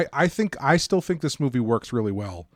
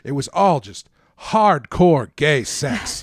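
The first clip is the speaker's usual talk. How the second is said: imitating a thick Chicago accent; a light Chicago director voice; 4 dB louder than usual. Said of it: "thick Chicago accent".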